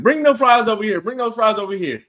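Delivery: loud, eager call across the room. Retold or imitated. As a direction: shout for the fries. Retold calling out for fries.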